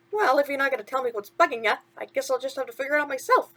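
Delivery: chirpy sidekick asking what's wrong; a hint of cartoon mouse; lightly voiced mouse. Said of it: "Timothy said".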